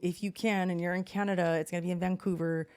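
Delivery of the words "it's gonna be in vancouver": Canadian accent. Real, not acted. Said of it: "Did you say that with a Canadian accent?".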